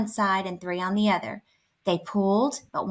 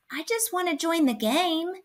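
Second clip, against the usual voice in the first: high, pleading whimper; 8 semitones higher than usual. A narrator's reading. Bobcat backing down before angry Bear, whimpering. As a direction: plead in a small, raised voice. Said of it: "Bobcat whimpered".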